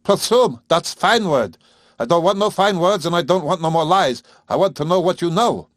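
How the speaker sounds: clamor it in a high rough whine; lyric whine. Acted. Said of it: "his lyric whine, his mangled consonants".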